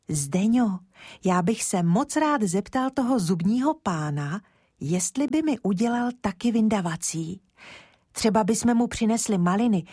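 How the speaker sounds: put-on a small boy chattering hopefully to his friend; lightly voiced eager boy; eager little boy. Boy Kája talks to Zdeňa.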